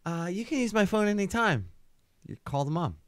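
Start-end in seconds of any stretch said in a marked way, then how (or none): 0.0-1.7 put-on higher, swooning girl voice. The girl at the party gushing over Bullet, swooning. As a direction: coo it like a smitten girl. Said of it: "And she's like".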